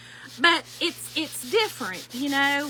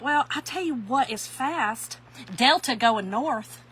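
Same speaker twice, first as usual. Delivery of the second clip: sassy comeback; 3 dB louder, slower than usual. Retold or imitated. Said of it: "So I was like".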